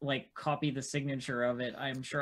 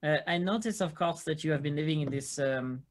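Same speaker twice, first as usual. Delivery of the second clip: formal questioner. Acted. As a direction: question her with careful formality.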